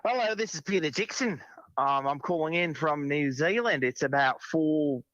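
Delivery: a mild prank-call character voice; put-on caller voice. Crank caller complaining to the hobbit call-in show, lightly voiced. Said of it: "She's been practicing voices".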